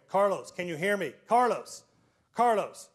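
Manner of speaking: a loud, urgent call to an unresponsive man. Retold or imitated. Principal calling the collapsed custodian's name, urgent. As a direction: call him back to you.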